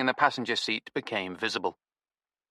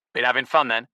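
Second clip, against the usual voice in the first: matey jibe; 6 dB louder than usual. Acted. Stinky's loud matey question.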